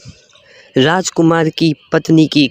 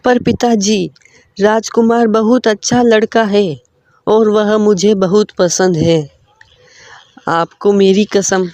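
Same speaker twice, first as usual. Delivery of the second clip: put-on higher girlish voice, pleading; pleading daughter; 4 semitones higher than usual. Lakshmi pleading with her father, higher pleading voice. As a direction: beg your father, a bit higher.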